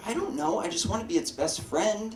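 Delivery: upset little niece. Retold or imitated. Four-year-old niece explains herself to her uncle, mock upset. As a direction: do a pleading small child, lightly mocked. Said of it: "So she's crying".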